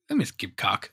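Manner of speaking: usual speaking voice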